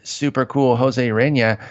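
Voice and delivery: slow, drawn-out mock praise; sarcastic hype, taken slowly. Real, not acted. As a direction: stretch out the compliment sarcastically. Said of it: "I'm being very sarcastic there".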